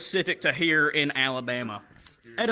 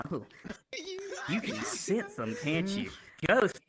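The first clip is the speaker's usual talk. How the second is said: softer voice with a hint of camp; lightly voiced flamboyant tour guide; 6 dB quieter than usual. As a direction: lightly imitate a knowing tour guide, swooping then dropping. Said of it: "the gay dude, the tour guy".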